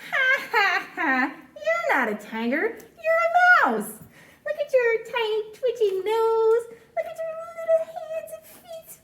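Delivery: mocking laugh. Tiger laughs at the mouse, hammed-up mockery.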